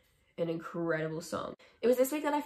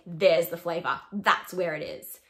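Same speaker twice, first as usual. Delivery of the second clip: mock delight; 6 dB louder than usual. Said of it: "I was just like".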